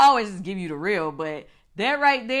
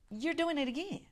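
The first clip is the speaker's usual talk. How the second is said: hushed warning; 6 semitones higher, 11 dB quieter than usual. Retold or imitated. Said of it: "I was like".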